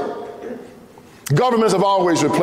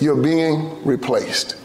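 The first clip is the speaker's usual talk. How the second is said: slow ominous quote; 4 semitones lower, much slower than usual. Retold or imitated. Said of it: "He admitted".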